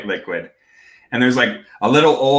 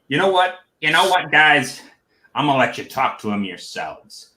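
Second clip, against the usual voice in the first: goblin chief voice; 3 semitones higher than usual. Acted. Goblin leader addresses the party.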